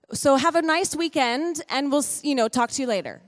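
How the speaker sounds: mock-casual see-you-later; breezy send-off. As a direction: toss off a chirpy goodbye, imitating the doctor. Doctor's casual send-off after bad news.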